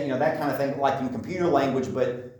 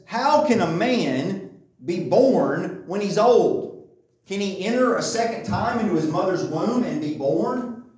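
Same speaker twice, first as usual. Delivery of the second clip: higher-pitched, mildly exasperated questioning; confused, frustrated Nicodemus; 5 semitones higher than usual. Acted. Nicodemus questions Jesus about rebirth, mildly confused and frustrated. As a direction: act out baffled disbelief, pitch raised. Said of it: "confused or if he's angry or if he's frustrated".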